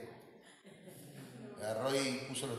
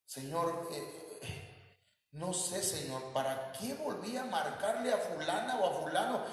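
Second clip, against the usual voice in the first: soft prayer confession; 3 semitones higher, 4 dB quieter than usual. Retold or imitated. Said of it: "tenemos que pedirle al Señor, confesarle".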